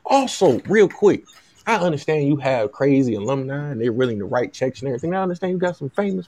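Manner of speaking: pretend Southern agent. Agent asks the university for a house, in a light Southern voice. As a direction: slip in another favor as a lightly Southern agent. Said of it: "This is my Southern voice".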